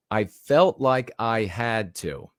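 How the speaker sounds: "felt" drawn out and stressed. Retold or imitated. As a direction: lean hard on "felt". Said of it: "notice these words".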